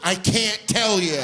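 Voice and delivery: big theatrical sigh into a high, slow refusal; hammed-up breathy sigh, words drawn out. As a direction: sigh it out like a put-upon little boy. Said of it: "I'm just sighing".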